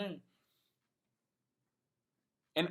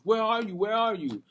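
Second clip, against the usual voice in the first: urgent questioning; 7 semitones higher, 6 dB louder than usual. Retold or imitated. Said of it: "He's asking me questions".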